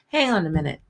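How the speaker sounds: rough imitation of Scottish speech; lightly put-on Scottish guard voice; bastardized Scottish accent. Security guard telling the visitor to wait, bastardized Scottish accent. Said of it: "the bastardized Scottish accent".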